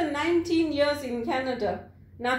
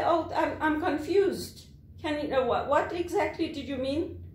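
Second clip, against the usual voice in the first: feigned confusion, hesitant; playing dumb; 2 semitones higher than usual. Worker pretending to be stupid to avoid trouble, feigned confusion. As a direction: pretend not to follow, puzzled. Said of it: "You have to pretend to be stupid".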